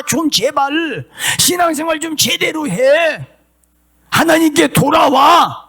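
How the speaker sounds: a prophet begging the people to come back, rising to a cry; prophet pleading. Acted. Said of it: "이스라엘 백성들을 향해서 예언합니다".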